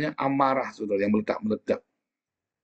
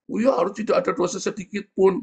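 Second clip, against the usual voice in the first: mocking scrupulous member; 10 semitones higher, 3 dB louder than usual.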